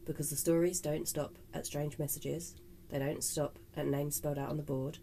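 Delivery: measured storytelling read; podcast narration. Acted. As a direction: read it like a spooky podcast script. Reads scripted intro.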